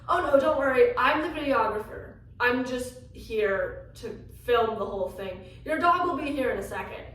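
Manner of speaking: calm a panicked stranger briskly; lightly voiced cheerful videographer; reassuring videographer.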